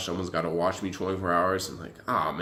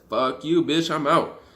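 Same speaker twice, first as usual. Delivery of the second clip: higher, louder mock blow-off; retold outburst; 8 semitones higher, 6 dB louder, slower than usual. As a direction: fling it back at him, louder and higher. Telling off the officer.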